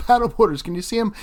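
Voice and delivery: high, loud disbelieving laugh through the word; exasperated laughing; laughing exasperation. Real, not acted. Annoyed at paddleboarders in frame.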